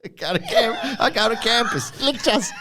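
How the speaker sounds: high, laughing stab at Australian; bad Australian accent. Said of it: "I cannot do an Australian accent".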